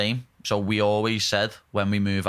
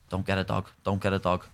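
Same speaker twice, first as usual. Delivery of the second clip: nagging parents; 3 semitones lower, 4 dB quieter than usual. Retold or imitated. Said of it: "they were like".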